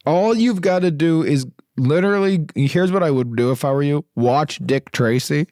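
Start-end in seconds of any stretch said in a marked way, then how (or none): 4.1-5.5 slow, spelled-out pitch; slow and deliberate. Shown as a demonstration. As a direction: lay it out slowly. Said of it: "pitching the movie twice".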